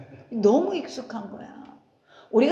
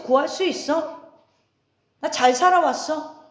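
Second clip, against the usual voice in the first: mock self-reliant boast; 3 semitones higher than usual. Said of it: "이래도 주님이".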